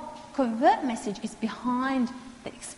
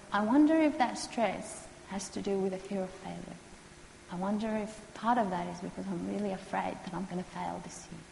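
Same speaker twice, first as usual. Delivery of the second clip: tentative and gentle; 5 dB quieter than usual. Shown as a demonstration. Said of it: "very tentatively, very gently, very calmly".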